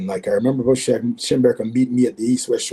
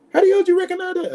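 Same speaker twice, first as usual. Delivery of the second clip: amazed demand; faster than usual. Retold or imitated. Voicing opponent amazed.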